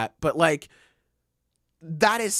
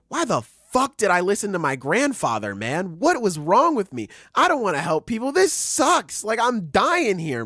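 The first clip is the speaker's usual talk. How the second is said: climbing higher and louder with each complaint; mock frustrated rant; 7 semitones higher, 4 dB louder than usual. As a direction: whine it out, rising to a fed-up peak. Yuji complaining in the detention center.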